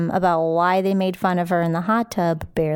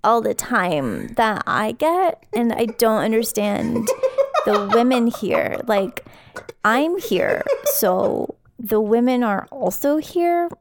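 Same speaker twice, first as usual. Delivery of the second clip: Crystal impression. Shown as a demonstration. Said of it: "get into the character of it".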